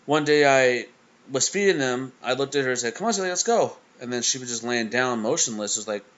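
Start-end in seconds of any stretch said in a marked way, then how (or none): 2.9-3.8 calling the dog. Retold or imitated. Calling his dog to eat.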